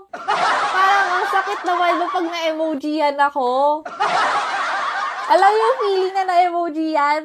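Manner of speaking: talking through laughter; laughing complaint. Real, not acted. Streamer laughing about being sent only an emoji. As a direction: laugh while you complain.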